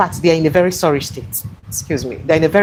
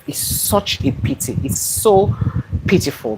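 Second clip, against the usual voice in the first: sad; slower than usual. Real, not acted. Lamenting kidnapped women.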